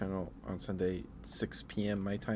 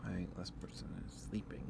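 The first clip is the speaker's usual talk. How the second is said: whispering; 7 dB quieter than usual. Real, not acted. Someone asleep nearby.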